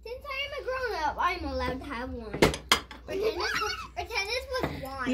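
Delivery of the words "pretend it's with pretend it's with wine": giggling. Real, not acted. Child giggling asking for wine.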